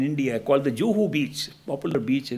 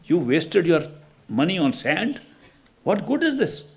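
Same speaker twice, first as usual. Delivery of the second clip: retold angry scolding; 4 semitones higher than usual. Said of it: "His friend cursed him".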